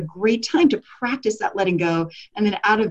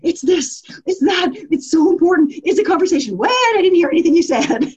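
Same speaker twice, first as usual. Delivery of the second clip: mock self-absorbed chatter; 9 semitones higher, 4 dB louder than usual. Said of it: "our conversations are like that".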